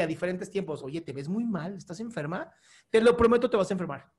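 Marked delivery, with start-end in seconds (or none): 0.8-2.5 softly voiced fake concern; mock concern. Telling Fati how friends would say it, in soft mock concern. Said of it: "los cinco te decimos así".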